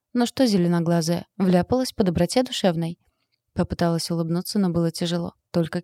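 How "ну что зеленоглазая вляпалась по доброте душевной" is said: usual speaking voice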